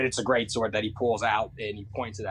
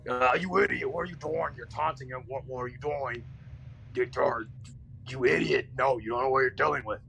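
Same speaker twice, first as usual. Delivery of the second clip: panicked scolding voice. Acted. Companion voice scolding the angel for taunting, alarmed. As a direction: scold him for taunting the thing.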